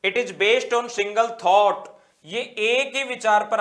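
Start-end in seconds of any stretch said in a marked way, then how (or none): 0.0-1.9 very slow, louder on repeat; slow dictation. Shown as a demonstration. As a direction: spell it out for note-taking. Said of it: "dictating notes slowly". (धीमे-धीमे ज़ोर से लिखवाना)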